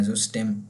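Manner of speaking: ज़ुस्टेम said zoo-shtem with rounded ü; German System. Shown as a demonstration. Teacher showing German, ज़ुस्टेम with ü. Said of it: "वो इसको ज़ुस्टेम कहते हैं".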